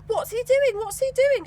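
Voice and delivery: high, loud impatient repeat. Acted. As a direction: demand an answer, impatient. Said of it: "she repeated impatiently".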